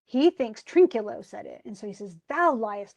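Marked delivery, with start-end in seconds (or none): 2.3-3.0 lightly acted accusation, voiced out loud; mock-indignant comeback; mild indignant retort. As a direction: throw the accusation back. Caliban snaps back at supposed accuser.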